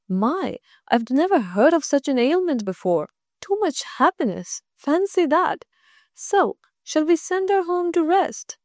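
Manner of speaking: a hint of a concerned school head; kindly principal. Principal fussing over a pupil, lightly voiced.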